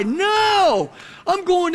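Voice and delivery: preacher shouting down a false belief; emphatic shout. Real, not acted. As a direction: slam the door on that idea. Preacher rejecting self-righteous claim.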